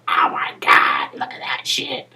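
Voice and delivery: whispered, half-crying gasp of shock; a faked horrified commentator; hushed mock dismay at ringside; mock Don West. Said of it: "Instead of Don West going".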